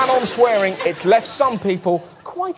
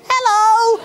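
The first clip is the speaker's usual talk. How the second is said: mock leering hello; 11 semitones higher than usual. Greeting imaginary Mrs Martin.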